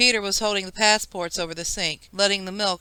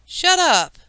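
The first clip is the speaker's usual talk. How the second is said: much higher and louder, screamed at her; lashing out at his cousin; furious yell; 10 semitones higher, 6 dB louder than usual. A narrator's reading. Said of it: "Kevin yelled at her".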